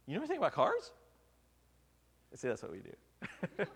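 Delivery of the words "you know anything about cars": high, loud disbelieving question; husband doubting his wife knows cars, higher and louder; incredulous. Retold or imitated. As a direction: scoff at the idea she knows cars.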